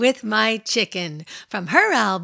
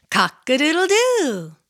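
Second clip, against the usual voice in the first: rooster crow; 5 semitones higher than usual. Pretend. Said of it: "And what does a rooster say".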